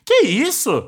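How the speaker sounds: usual speaking voice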